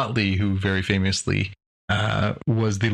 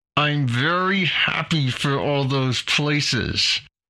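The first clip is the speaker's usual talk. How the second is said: forced out through clenched teeth, pitched up; 6 semitones higher than usual. Speaker asks the others to listen closely, then speaks through clenched teeth. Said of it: "see if you can hear my clenched teeth as I say this".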